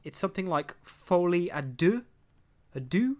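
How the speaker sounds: folie à deux said in tentative English-accented French; trying French. Shown as a demonstration. Podcaster tries the French title, tentative "folie à deux". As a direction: sound out "folie à deux" carefully, unsure. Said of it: "I'm gonna try and pronounce this".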